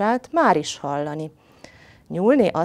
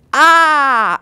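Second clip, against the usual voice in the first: long, loud, high "aah"; big storybook roar; tiger's roaring yell; 9 semitones higher, 11 dB louder than usual. A narrator's reading. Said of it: "üvöltötte".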